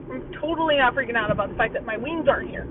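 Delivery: talking while chewing gum. Real, not acted. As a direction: chew gum through the words. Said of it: "and I'm chewing gum".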